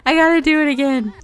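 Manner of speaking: high, fast, through giggles; giggling as the photo fails again; laughing redo. Real, not acted. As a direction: laugh while you say it. Retaking a picture, laughing.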